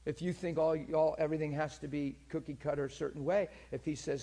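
ordinary talk

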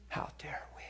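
a hushed, intense whisper; whispered rebuke. Retold or imitated. Preacher rebuking the funeral crowd in a whisper. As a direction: breathe it as a stunned rebuke. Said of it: "And then everybody said".

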